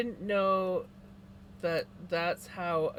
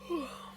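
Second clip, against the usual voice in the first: yawn; 9 semitones higher, 5 dB quieter than usual. Real, not acted. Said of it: "Excuse me for yawning".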